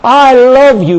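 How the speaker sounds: I love you lifted high and loud; spoken praise. Shown as a demonstration. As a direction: declare it out loud. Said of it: "Begin to let your own praise just come forth".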